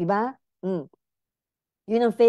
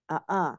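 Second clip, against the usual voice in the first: fake climax moan; 3 semitones lower, 4 dB quieter than usual. Shown as a demonstration. Doctor demonstrating a fake climax to viewers, mock moaning. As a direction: demo of a faked moan, soft and catlike. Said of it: "Ganito ka".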